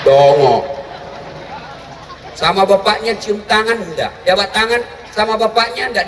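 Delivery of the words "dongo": much lower, louder scornful jab; scornful dig. Real, not acted. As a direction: drop a deep mocking insult. Scornful verdict on the girl. (ejekan kasar, lebih rendah dan keras)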